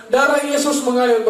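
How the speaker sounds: retold cry of faith. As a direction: call it out as a battle cry.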